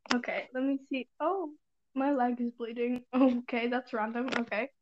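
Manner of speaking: groggy just-woke-up voice; morning voice. Real, not acted. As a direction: talk like you just rolled out of bed. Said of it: "sorry about my morning voice".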